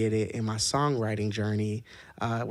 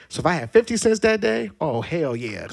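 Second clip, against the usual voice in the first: excited; 6 semitones higher, 5 dB louder than usual. Real, not acted. Excited memory of candy bags.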